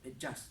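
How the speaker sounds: "Adjust" ending on a soft, light T; soft final T. Shown as a demonstration. Teacher showing the soft T sound, soft final T. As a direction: let the T in "Adjust" drop away softly. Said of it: "Soft T sound".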